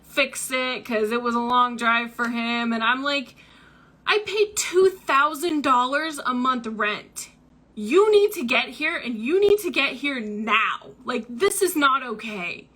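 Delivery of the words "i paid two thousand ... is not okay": mock yell at the maintenance guy, slow and firm; angry tenant demanding a repair, raised and insistent; retold yelling. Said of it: "I was yelling at the".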